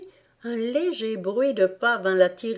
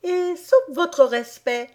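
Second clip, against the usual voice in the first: questioning blackbird; 4 semitones higher, 3 dB louder than usual. A narrator's reading. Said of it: "questionna le merle".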